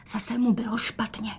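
unvoiced hushed whisper. A narrator's reading. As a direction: whisper it so father can't hear. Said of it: "dodala šeptem". (šepotem)

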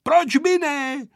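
high, slow, wondering query; surprised question. A narrator's reading. Pilot Hejduk questioning Vojta's objection, surprised. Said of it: "podivil se pan Hejduk".

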